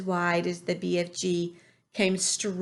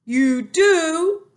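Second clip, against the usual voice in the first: high, loud sudden delight; light right up with hope; brightening cry; 9 semitones higher, 10 dB louder than usual. A narrator's reading. The giant brightens at Sophie's kind praise. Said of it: "cried the B F G, suddenly brightening".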